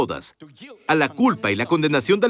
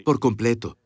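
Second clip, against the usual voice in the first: low, gentle full pardon; sincere forgiving voice, lower; tender, sincere forgiveness; 6 semitones lower than usual. Shown as a demonstration. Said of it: "La persona necesita que digas".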